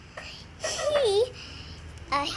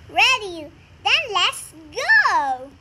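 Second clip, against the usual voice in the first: excited; 7 dB louder than usual. Acted. Family sets off in car.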